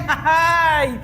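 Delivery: acted derisive laugh ending in "ay"; jeering stage laugh; mocking laugh. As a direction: laugh scornfully at him. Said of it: "empezó a burlarse".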